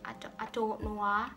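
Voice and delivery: lightly done Geordie accent demo; stammered start in a mild Geordie accent. Shown as a demonstration. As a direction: slip into a casual Geordie accent. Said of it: "mix it with the Geordie accent".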